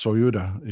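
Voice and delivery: "Soyuda" with an extra opening vowel glide; unanglicized "Soyuda", soy-OO-duh; bolder native-style pronunciation. Shown as a demonstration. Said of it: "it's actually pronounced Soyuda".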